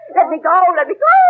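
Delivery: mild mock shriek, read from the page; understated novel shriek. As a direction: cry out the heroine's plea half-heartedly. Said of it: "she shrieked".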